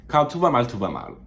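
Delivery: heavy Québécois French, punchy and high; thick French Canadian accent. Shown as a demonstration. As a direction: say it like a true Montrealer. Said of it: "with the thickest, like, French Canadian accent".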